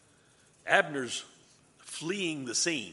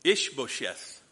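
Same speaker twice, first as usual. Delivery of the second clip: talking through a mouthful; mouth full; 4 dB louder, slower than usual. Real, not acted. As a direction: say it round a bite of food. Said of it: "never talk with your mouth full".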